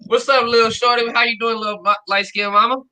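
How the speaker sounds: flirty greeting. Acted. Man jokingly greets a woman as his little mama, mock flirty. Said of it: "you look like you could be like".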